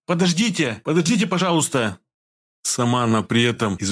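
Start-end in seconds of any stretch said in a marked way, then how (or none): 0.1-2.0 higher, pleading cry for help; plaintive call. A narrator's reading. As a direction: fake a helpless girl calling out. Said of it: "Маша крикнула жалобным голосом".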